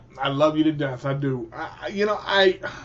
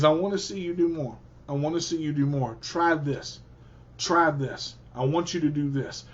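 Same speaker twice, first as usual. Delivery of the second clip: lightly voiced Miss Winnie nudging him to do more; a lightly voiced mentor, lower and softer; a hint of Miss Winnie; 4 semitones lower, 5 dB quieter than usual. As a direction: lower and softer, quick urging teacher. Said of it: "all Miss Winnie asked me is".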